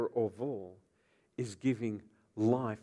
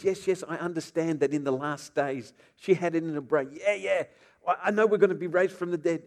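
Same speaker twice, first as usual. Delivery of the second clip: quick, higher, louder brushing-off; fast, raised yes-yes impatience; impatient Martha; 4 semitones higher, 5 dB louder than usual. Acted. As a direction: rattle it off, eager to agree. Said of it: "And Martha says".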